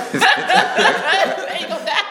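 drawn out, slow through laughter; laughing slow. Real, not acted. Repeating the scripture joke, slow and laughing. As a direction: stretch it out while laughing. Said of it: "laughing repeat".

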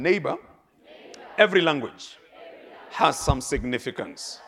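1 congregation call and response. Shown as a demonstration. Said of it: "tell your neighbor one more time".

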